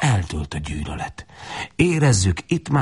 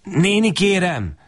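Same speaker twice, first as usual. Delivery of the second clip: high, slow pleading call; humble plea; 11 semitones higher, slower than usual. Acted. Thirsty boy begging the woman at the door: high humble plea. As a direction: beg the old woman humbly, slowly. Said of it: "szólok be alázatosan".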